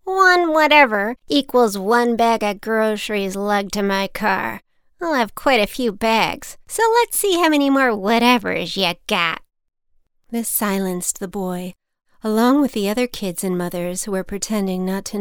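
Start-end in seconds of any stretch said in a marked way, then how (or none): 0.0-9.4 lightly voiced old lady, gleeful; sly old woman. Old woman setting the boy a penalty, gleeful. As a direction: lay down the price with relish.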